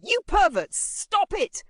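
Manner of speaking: high, loud protest; shouting girls. A narrator's reading. Girls protest from the side, shouting high. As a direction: shriek at them to stop. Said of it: "girls started shouting from the side".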